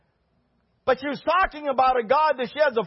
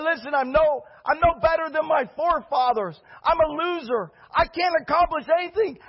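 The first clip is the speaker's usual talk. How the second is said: ranting Elijah; 3 semitones higher than usual. Acted.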